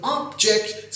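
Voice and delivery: ऑब्जेक्ट with a stressed "ob" and lighter "ject"; first-syllable stress. Shown as a demonstration. Teacher explaining the noun to learners, OB stressed in ऑब्जेक्ट. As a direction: say ऑब्जेक्ट as "OB-ject", weight up front. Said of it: "stress देने से पहले syllable में".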